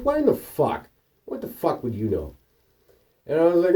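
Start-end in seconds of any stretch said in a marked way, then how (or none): 0.0-2.4 mock crazy woman. Imitating the woman's angry reply.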